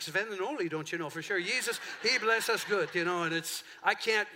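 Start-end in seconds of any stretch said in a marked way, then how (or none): 0.0-2.9 mock Sven-and-Ole Scandinavian accent; jokey Scandinavian Minnesotan lilt; Minnesota Scandinavian accent. Shown as a demonstration. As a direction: slip into a comic Nordic Midwestern accent. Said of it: "eventually I'm talking like".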